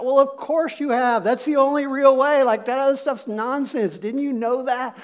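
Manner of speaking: lightly exasperated comeback; acted scoffing. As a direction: dismiss it as blindingly obvious. Peter scoffs at the obvious.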